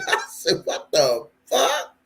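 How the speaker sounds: laughing through the words; slow, breathless laugh breaking into the line; cracking up. Real, not acted. Vlogger retelling gossip that tickles him, cracking up.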